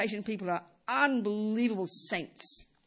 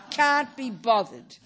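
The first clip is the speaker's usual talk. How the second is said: slow and louder can't-be-bothered; exaggerated lazy groan; mock lazy whine; 5 dB louder, much slower than usual. Shown as a demonstration. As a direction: stretch it out, milking the laziness. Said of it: "the obvious one is".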